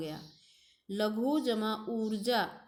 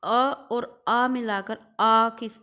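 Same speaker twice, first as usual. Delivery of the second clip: emphatic demo; 7 dB louder, slower than usual. Shown as a demonstration. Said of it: "ऐसे ही अब दूसरा देखिए".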